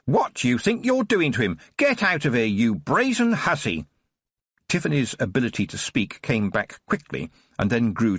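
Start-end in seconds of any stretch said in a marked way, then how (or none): 0.1-3.9 screaming nurse. Acted. Nurse Miss Spruce catching Tiffany with the poker, outraged scream. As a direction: shriek at the intruder in outrage. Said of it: "and screamed".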